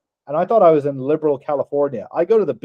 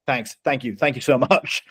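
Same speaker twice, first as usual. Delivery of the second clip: hushed, earnest imitated thanks; mock heartfelt gratitude. Store guy after the Gatorade verdict, mock heartfelt gratitude.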